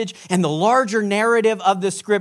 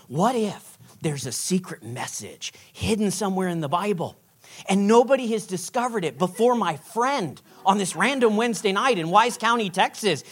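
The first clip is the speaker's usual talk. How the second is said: hushed speculation; 6 dB quieter than usual. Retold or imitated. Imagines a secret hidden message.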